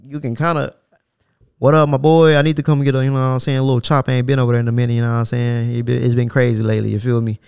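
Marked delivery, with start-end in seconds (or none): 1.6-4.9 louder, hyped greeting to a homie; buddy calling up. Retold or imitated. Caller phoning the barber far away for a chop, loud friendly greeting. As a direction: call your boy up loud and friendly.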